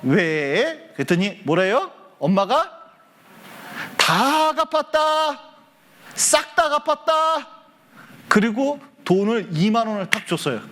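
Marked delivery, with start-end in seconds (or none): 4.0-7.5 high, long-drawn proclamation; acted triumphant announcement. Mother telling her child the debts are paid, proclaiming. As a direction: stretch each phrase out high and slow, like declaring victory.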